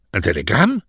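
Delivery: mildly astonished, rising at the end; a touch of eager disbelief; surprised question. Acted. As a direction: ask it in surprise. Messenger astonished at news of telegram.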